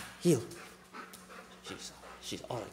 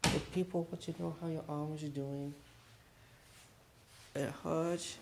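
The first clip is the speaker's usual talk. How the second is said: higher teasing interviewer voice; 7 semitones higher than usual. Pretend.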